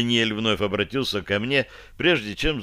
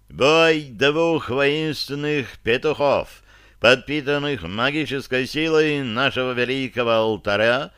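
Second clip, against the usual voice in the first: solemn booming herald; 2 semitones higher than usual. Acted. Herald announces the cockfight.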